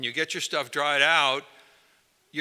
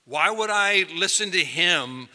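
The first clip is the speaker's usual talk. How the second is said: doubtful Peter; 5 semitones higher than usual. Retold or imitated. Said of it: "Peter assumes".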